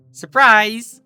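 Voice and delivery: high, loud gleeful shout; spring the surprise loudly. Acted. Lyra revealing the sea pony to Bon Bon, gleeful shout.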